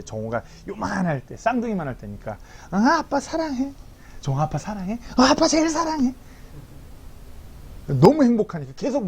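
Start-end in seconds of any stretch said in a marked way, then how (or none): 2.7-6.1 put-on small son telling his dad he loves him, high and childlike; little boy. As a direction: answer like a sleepy toddler. Small son answering, voiced high.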